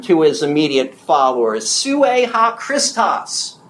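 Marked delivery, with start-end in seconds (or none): 1.7-3.6 slow, drawn-out and pressed; emphatic confession of the Christ. Retold or imitated. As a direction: set each word down slowly and firmly. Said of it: "Said emphatically".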